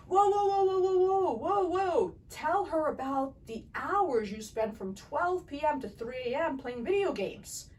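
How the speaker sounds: high, loud, exasperated outburst; wife exposing husband's gaming hours, loud and high; livid wife. Retold or imitated. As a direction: cut in on him, loud and high, fed up. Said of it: "she was livid".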